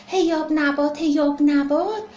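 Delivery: put-on crying child repeating his demand; tearful whine. Baby elephant crying to the barber for candy. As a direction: sob out the plea.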